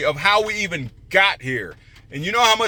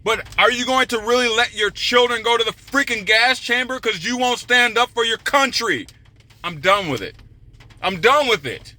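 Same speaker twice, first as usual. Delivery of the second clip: heated rant; 4 semitones higher than usual. Real, not acted. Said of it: "All right, I'm gonna calm down now".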